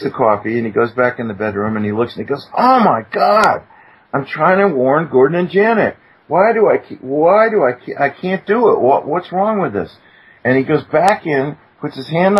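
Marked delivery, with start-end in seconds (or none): 2.5-10.0 desperate man who can't make himself act; retold distress. Retold frustration, trying to warn them.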